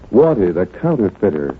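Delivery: mock ad reading. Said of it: "Something like".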